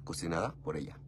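breathy whisper, almost to himself; whispered aside. Real, not acted. Whispering to his love that she cooked it. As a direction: let it slip out as a secret. Aside after praising her cooking.

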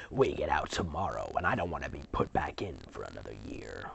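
hushed but urgent whisper; whisper yell. Acted. Twin hushing her sister in the asylum, whisper yelling. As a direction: shush them fiercely without sound. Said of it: "she whisper yells".

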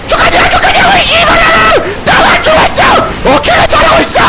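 very high, frenzied yelling; frantic screaming. Real, not acted. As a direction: scream at the top of the range. 죽은 뒤 악쓰며 소리침. (악을 쓰는 높은 고함)

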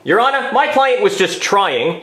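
trying said slowly with weight; stress on trying. Shown as a demonstration. Lawyer stresses trying to the judge. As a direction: lean hard on the word trying. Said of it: "hard emphasis on trying".

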